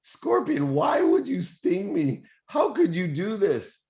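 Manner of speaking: very high, loud mock-desperate cry; drowning frog cries out. Dying frog cries to the scorpion, high and loud. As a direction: wail it like a sinking frog. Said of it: "The frog says".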